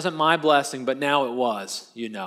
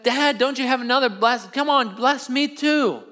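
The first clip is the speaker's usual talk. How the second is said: high-pitched, desperate begging; acted whine, stretching out the final plea; tearful pleading; 8 semitones higher than usual. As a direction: act out a son imploring his father. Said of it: "they're both crying".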